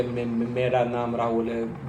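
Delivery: hurried demo that trips into a stammer on मेरा; rushed, stammering. Shown as a demonstration. Coach showing students a hurried, stammered name. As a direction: rush मेरा नाम राहुल है so it stammers on मे-. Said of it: "जल्दी में बोलेंगे कि".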